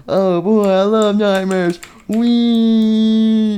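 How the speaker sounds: high-pitched, giddy character voice; gleeful squeal. Acted. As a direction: squeal with delight, stretching the last word. JJ delights in the nightmares.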